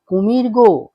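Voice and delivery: narrated warning with a touch of panic; frightened. A narrator's reading. Woman clutching her companion after a river scare, mildly frightened cry. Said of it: "ভীত সন্ত্রস্তা সারদামণি".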